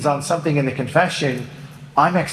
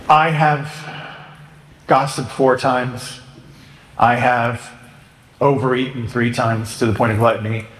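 slow, direct listing of sins; clear model confession; 3 semitones lower than usual. Shown as a demonstration. Priest demonstrating a good confession, steady and direct. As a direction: lay out each sin plainly and slowly. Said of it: "So everybody with me?".

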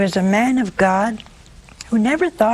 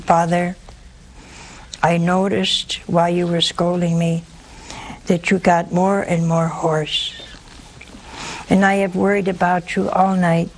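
calmly. Acted. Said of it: "says very calmly".

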